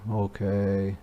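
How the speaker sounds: low soft mumble; quiet low mumbled okay. Shown as a demonstration. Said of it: "mumbled is when you say in a low voice".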